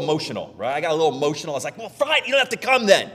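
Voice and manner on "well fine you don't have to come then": mock huff. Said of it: "it's like mad".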